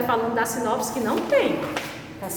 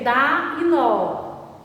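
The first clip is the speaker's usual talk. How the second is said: slow examples; much slower than usual. Shown as a demonstration. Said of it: "Por exemplo".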